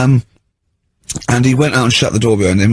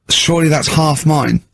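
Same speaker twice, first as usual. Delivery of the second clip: sarcastic; 4 semitones higher than usual. Retold or imitated. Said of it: "I was sort of being sarcastic".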